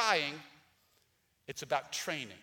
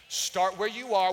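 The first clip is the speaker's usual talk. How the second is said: loud; 2 semitones higher, 9 dB louder than usual. Real, not acted. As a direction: punch it out loudly. Repeated sermon refrain.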